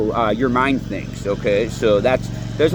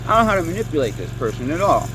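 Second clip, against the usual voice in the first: flustered manipulator; 5 semitones higher than usual. Retold or imitated. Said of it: "They're gonna be like".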